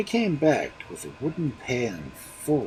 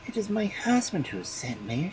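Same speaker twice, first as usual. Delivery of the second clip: trembling; 8 semitones higher than usual. A narrator's reading. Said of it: "trembling all over".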